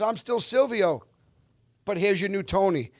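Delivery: imitated high-pitched announcement; Steve Van Zandt. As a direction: present the new star, voice lifted. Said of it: "He goes".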